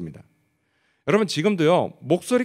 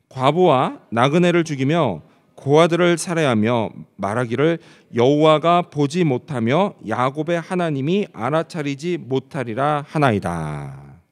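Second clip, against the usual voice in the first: slow, measured congregational Bible reading; scripture reading; 4 dB louder, slower than usual. Acted. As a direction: read the verse out loudly and deliberately, phrase by phrase. (성경 봉독하듯 느리고 또박또박)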